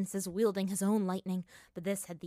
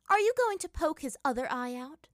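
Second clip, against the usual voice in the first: teasing; 9 semitones higher, 7 dB louder than usual. Acted. Teasing question.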